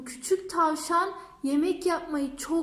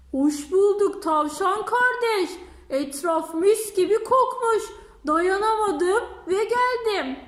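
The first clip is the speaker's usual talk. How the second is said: sly fox; 3 semitones higher, 4 dB louder than usual. Acted. Fox flatters the rabbit.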